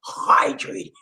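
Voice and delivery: "Hydrated" with a heavy, breathed H and stressed first syllable; "Hydrated" pushed out from an airy "Hy"; emphasis on HY. Shown as a demonstration. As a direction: lean hard on the "Hy" in "Hydrated". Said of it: "Emphasis on the H Y".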